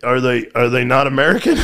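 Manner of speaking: retold question breaking into laughter; can't keep a straight face asking it; friend's baffled question, quoted through laughter; laughing through the quote. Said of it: "and I just started laughing".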